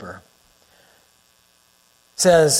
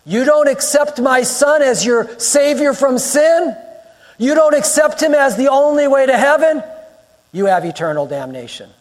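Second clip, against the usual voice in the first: raised, emphatic divine warning, lightly acted; stern warning; 7 semitones higher than usual. Preacher voices God warning mankind up front, stern warning. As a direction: lay down each condition high and deliberate.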